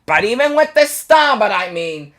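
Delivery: high, loud giggly cartoon mouse; Chuck E. Cheese impression. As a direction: ham up the mascot's big finish. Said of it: "Chuck E. Cheese voice actor thing".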